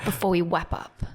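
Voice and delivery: slurred retainer speech; wearing a retainer. Real, not acted. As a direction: talk around a retainer. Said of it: "this is Sam's retainer talk".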